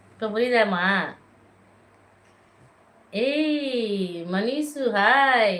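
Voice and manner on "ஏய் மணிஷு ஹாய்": long drawn-out playful call, then a loud hi. Real, not acted. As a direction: sing out her name to tease her. Greeting child by new name. (நீட்டி விளையாட்டாக அழைத்தல்)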